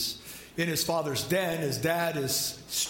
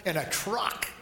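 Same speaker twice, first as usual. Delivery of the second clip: put-on eager toddler; 3 semitones higher than usual. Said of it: "little Joey sits on his lap and he goes".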